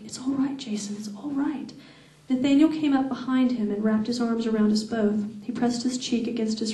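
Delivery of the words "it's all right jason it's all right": soft, breathy whisper close to the ear; hushed, tender whisper. A narrator's reading. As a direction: whisper the comfort into his hair. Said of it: "I whispered it into his hair".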